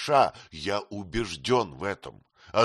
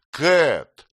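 a sharp, louder cry of her name; sudden cry; 5 semitones higher, 9 dB louder than usual. A narrator's reading. Nick cries out to Kate, rising from his seat, sharp cry. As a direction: call out her name in alarm. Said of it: "вскрикнул он".

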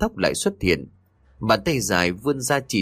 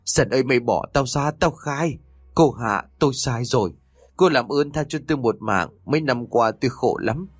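put-on high, helpless pleading old man; a broken old man confessing and begging; 4 semitones higher than usual. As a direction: beg the ghost for mercy. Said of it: "lão bất lực xin tha".

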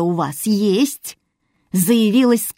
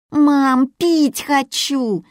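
put-on high, pushy child's whine, slow; more insistent whine; 7 semitones higher, much slower than usual. Little Yulia repeats her plea more insistently, high whine. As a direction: insist harder like a tired kid, high. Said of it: "повторила более настойчиво Юля".

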